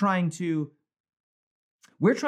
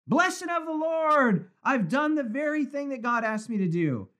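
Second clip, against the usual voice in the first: mocking Saul; 8 semitones higher than usual. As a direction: mimic a self-satisfied king. Mocking Saul's boast.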